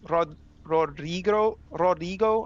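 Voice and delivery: slow, careful Spanish-accented Rodrigo; lightly put-on Spanish accent on the name. Shown as a demonstration. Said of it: "I'm trying to say it with an accent".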